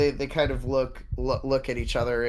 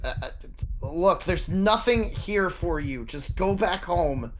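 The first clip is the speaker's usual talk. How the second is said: nervous stutter; 6 semitones higher than usual. Acted. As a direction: stammer it out, scared. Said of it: "they're stuttering kind of a lot".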